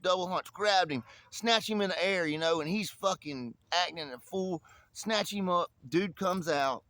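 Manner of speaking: ordinary delivery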